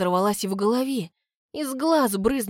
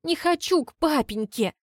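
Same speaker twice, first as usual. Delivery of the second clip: much higher, crying plea; tearful wail; 7 semitones higher than usual. A narrator's reading. The girl refuses to go back to her father, crying. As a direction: whimper it out through tears. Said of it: "от души разревелась".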